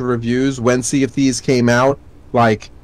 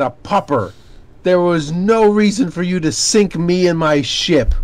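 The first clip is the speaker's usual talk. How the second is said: mock threat; 5 semitones higher than usual. Mock threat to in-game rival.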